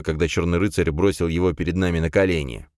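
plain reading voice

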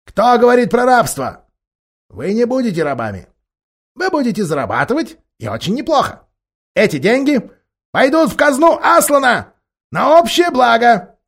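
high, fast wheedling ape; sly ape voice. Acted. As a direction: sell the lie sweetly. The ape persuades the beasts.

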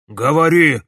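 loud barked order; villain ordering the boy to speak; command. Acted. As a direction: order him to talk. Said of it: "приказал Ипполит Германович".

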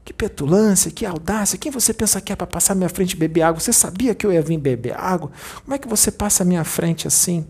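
imitating a rich man's arrogant complaint; mock-offended snob. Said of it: "Com aquela arrogância".

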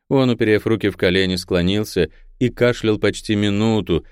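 ordinary delivery

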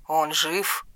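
father-in-law speaking through a phone, distant and soft. A narrator's reading. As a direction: sound small, as through a phone.

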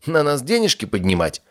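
rising, outraged protest; indignant. Acted. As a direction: throw it off in disgust. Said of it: "возмутился Норрис".

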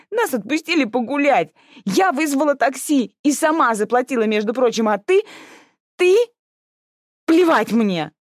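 mild acted sobbing; sobbing outburst. Sister bursts into tears at the older one's words. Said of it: "разразилась рыданиями".

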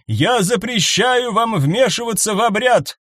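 commanding noblewoman's decree; imperious command. A narrator's reading. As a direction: proclaim it with royal authority. Empress forbids interference.

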